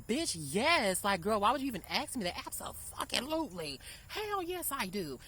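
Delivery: excited yes. Real, not acted. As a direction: gush out an enthusiastic yes. Eager answer to his question.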